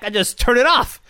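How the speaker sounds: normal talking voice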